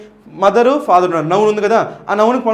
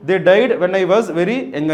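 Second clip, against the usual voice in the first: slow word-by-word quote; slow reading; much slower than usual. Shown as a demonstration. Teacher quotes option C slowly to students. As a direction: read it slowly and clearly.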